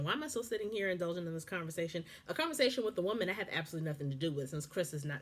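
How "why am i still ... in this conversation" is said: rushed, fed-up rhetorical question; fast exasperated question. Shown as a demonstration. Host asking her own question, quick and fed up. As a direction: fire it off impatiently. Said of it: "That would be my question".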